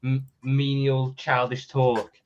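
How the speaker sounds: sounding muffled, as if through a wall; muffled mic. Real, not acted. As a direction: voice muffled by a bad laptop mic. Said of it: "you sound like you're muff-, you sound like you're s-, you're speaking through a spot".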